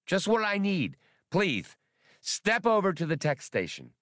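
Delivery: high, fussy squeaking creature; squeaky voice. Acted. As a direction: squeak it out like a fretful rodent. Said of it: "Spray squeaked".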